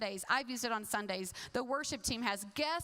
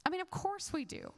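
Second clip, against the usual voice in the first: ironic reassurance; 5 semitones higher than usual. Shown as a demonstration. Preacher teasing the congregation's certainty, ironic. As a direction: say "of course" like you doubt it. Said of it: "But do we?".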